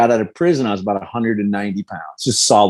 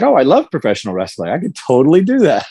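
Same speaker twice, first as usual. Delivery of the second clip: lightly acted eager yes, lifting higher at the end; naive enthusiasm; 4 semitones higher than usual. Fighter recalling his reaction to the pitch, naive enthusiasm. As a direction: play back a keen, quick agreement.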